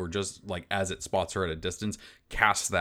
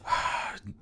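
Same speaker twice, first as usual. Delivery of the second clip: sigh. Real, not acted. Deciding on using luck.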